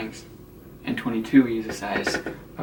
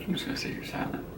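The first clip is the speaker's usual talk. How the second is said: whispering; 7 dB quieter, faster than usual. Pretend. Promises to stay silent on camera.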